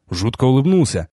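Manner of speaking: plain reading voice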